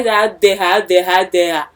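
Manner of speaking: a lighter echo of the offended kings; mock royal indignation, chanted three times; thick-voiced kings. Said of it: "their tick, tick voice".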